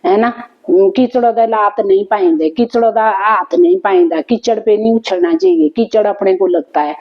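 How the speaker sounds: mother's saying quoted in Pahari; Pahari dialect. Retold or imitated. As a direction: recite it plainly in Pahari dialect. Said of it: "अपनी पहाड़ी में बोलते थे".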